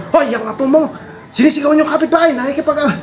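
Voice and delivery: high, fast mock scolding. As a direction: rattle off a father's complaint. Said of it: "magalit si tatay". (mabilis na pagagalit ng tatay)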